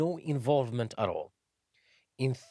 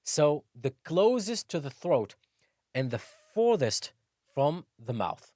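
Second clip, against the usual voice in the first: ordinary talk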